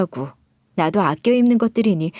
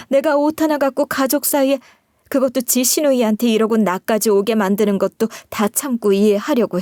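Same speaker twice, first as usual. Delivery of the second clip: huffy mother-in-law. Acted. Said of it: "시모까지 파르르 떨면서". (살짝 높인 톤으로 꾸짖는 시어머니)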